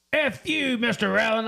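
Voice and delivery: high, sudden retold curse; hammed-up insult from a caught fake officer; mock angry curse. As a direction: spit it at him, imitating the scammer. Scammer curses at bondsman, retold.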